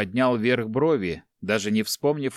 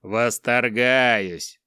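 mock admiration; 3 dB louder, much slower than usual. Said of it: "поправил Викард".

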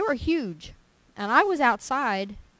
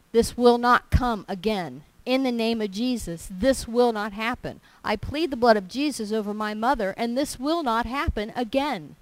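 firm rebuking prayer; 2 semitones higher, 5 dB louder than usual. Retold or imitated. Praying against mother's illness.

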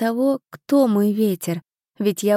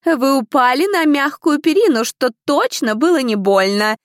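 higher, louder stern rebuke; a strict examiner reprimanding the ladies; stern stewardess; 5 semitones higher, 4 dB louder than usual. A narrator's reading. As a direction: scold the failed girls from above. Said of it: "резко прервала её леди Камилия".

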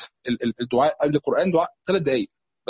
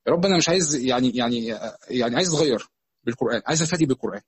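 halting, low plea; personal supplication; 5 semitones lower than usual. Acted. Worshipper asking to change through Quran, low halting supplication. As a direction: plead gently with God, searching for words. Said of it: "يدعي ربنا".

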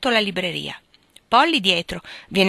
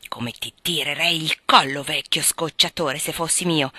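mild threat; 3 semitones lower than usual. Acted. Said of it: "esclamò il ragazzo minacciando col pugno".

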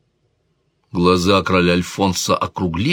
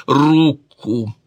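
higher, sharp order in a different voice; commanding king; 7 semitones higher, 3 dB louder than usual. A narrator's reading. King orders the lady to give her hand, sharp command. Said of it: "совершенно другим голосом".

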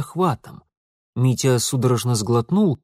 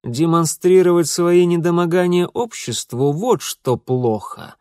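smug retort; 5 semitones higher, 4 dB louder than usual. Acted. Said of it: "удовлетворённо возразил Алексей".

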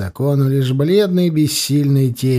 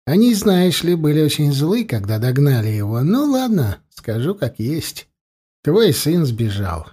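menacing chieftain. Acted. Uchai taunts captive smith.

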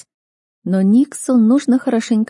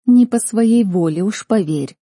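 1 cold reply; 3 semitones higher, 4 dB louder, slower than usual. A narrator's reading. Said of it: "ответила я холодно".

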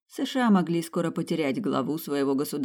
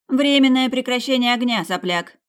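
very loud, high angry yell; angry shout; 8 semitones higher, 8 dB louder than usual. A narrator's reading. Tina yelling at the teen for a ceasefire, loud and angry. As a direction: scold him at full voice. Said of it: "крикнула Тина".

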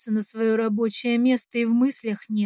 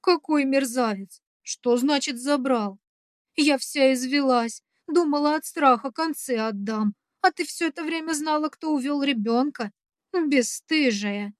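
mild mock yell; 2 semitones higher than usual. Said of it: "Во всё горло кричит старушка".

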